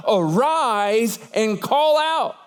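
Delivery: each word slow and deliberate; slow solemn command. Acted. Preacher quoting God's command to Jonah, slow and solemn. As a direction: lay out God's command slowly. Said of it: "What was the command of God?".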